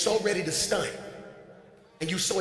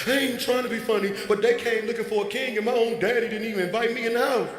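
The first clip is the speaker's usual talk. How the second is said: lightly voiced griping young shepherd, rising higher; complaining David; 3 semitones higher than usual. Pastor mocks David griping to his family, lightly whiny. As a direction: whine about being stuck in the field. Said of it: "this what you sound like right now".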